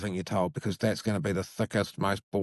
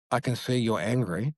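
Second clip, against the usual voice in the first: calm validating. Shown as a demonstration. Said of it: "So when I say".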